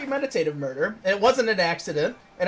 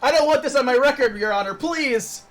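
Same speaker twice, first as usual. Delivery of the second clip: a hint of desperate begging; pleading defendant; 5 semitones higher than usual. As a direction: drag out please like begging the judge. Pleading defendant in courtroom bit.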